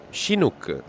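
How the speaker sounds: Chinook begun with a soft SH, "shi-NOOK"; corrected pronunciation. Shown as a demonstration. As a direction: say Chinook as "shin-OOK". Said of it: "I don't know how you say it".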